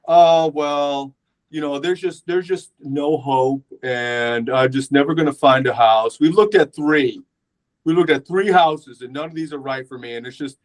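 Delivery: mildly acted hopeless complaint; half-hearted imitation of someone giving up; depressed, no hope. House hunter after three houses, mildly acted despair. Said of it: "depressed, like, uh, no hope".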